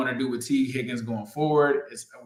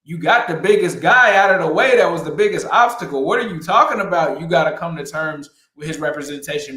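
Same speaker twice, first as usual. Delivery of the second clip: exasperated retort; 3 semitones higher, 4 dB louder than usual. Retold or imitated. Host imagining his reply to the team's negotiators, exasperated. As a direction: push back in disbelief, raised voice. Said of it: "And I'm like".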